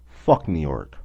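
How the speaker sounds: angry dismissal. Real, not acted. Angry dismissal of New York.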